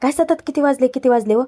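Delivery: lightly acted exasperation; mild retold irritation. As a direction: imitate someone fed up with being pestered. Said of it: "धन्या आता चिडचिड करतो की".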